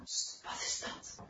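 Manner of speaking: slow, startled whisper; whispered, voice caught short by a noise; hushed alarm. A narrator's reading. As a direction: hush them and listen out. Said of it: "zijn stem stokken".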